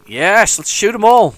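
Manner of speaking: loud, high battle cry; gleeful shout. Real, not acted. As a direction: cheer them into the fight. Gleeful game attack.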